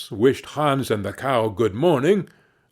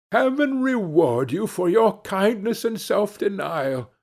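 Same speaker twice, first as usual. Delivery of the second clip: higher-pitched, heartfelt thanks; grateful thanks; 7 semitones higher than usual. A narrator's reading. Hans thanks the butcher for the swap, grateful. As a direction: pour out naive gratitude.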